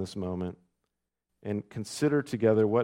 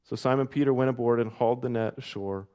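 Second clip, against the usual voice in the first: louder, measured Bible reading to the congregation; scripture reading; 3 dB louder than usual. A narrator's reading. Pastor reading John twenty-one to the church, measured and ringing. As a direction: read the passage out with lift and weight.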